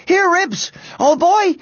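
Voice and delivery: loud, high calling to a dog; yelling. A narrator's reading. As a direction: holler urgently for your dog. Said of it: "he yelled".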